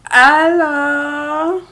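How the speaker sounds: hesitant, slow and modest; captain pretending to be a French legionnaire, shy and slow; reluctant captain. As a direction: drag out a bashful reluctance. Martin plays a reluctant legionnaire.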